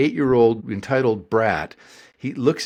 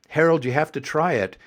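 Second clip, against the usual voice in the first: imitated mother with South Boston accent; lightly raised mom voice, thick Boston vowels; horrible Boston accent. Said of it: "This is with the horrible accent".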